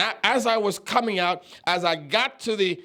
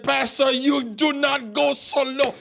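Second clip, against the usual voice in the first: indignant protest; 5 semitones higher than usual. Retold or imitated. Evangelist's protest acted out again.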